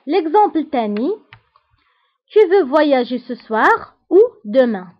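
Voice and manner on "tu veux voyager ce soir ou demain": loud, very slow French model sentence; teacher's spaced-out, louder reading; slow example reading. Shown as a demonstration. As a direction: project it slowly to a class.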